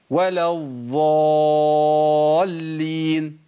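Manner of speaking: ولا الضالين with the ض said as a ظ, drawn out; ولا الضالين pronounced like ولا الظالين; dad turned to za error. Retold or imitated. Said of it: "بتبدل الضاد بضاء". (الضاد في ولا الضالين منطوقة ظاء)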